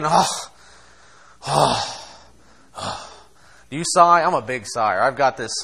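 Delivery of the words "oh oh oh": mock moaning. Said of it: "grumble and mumble and moan".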